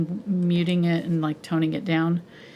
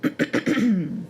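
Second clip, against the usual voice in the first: throat catching, words half whispered; a sudden lump in the throat; choked up. Real, not acted. Painter apologizes to viewers, choked up and half whispering. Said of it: "choked up all of a sudden".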